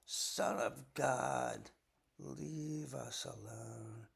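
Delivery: slow, otherworldly drawn-out plea; demon voice. Acted. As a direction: stretch each word like a possessed man. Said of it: "they cried out".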